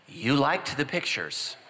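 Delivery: slow knowing wife. Retold or imitated. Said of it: "She's like".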